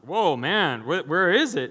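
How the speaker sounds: playfully stunned; mock astonishment. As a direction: act out being taken aback and wanting answers. Acted astonishment at the price.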